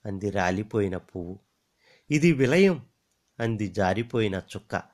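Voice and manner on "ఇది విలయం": a higher, louder strange voice; star's voice. Acted. The falling star declaring doom in a high strange voice.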